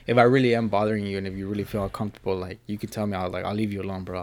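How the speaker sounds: soft sincere private ask; hushed sincere check-in; privately, quietly. Retold or imitated. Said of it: "privately, I'll be like".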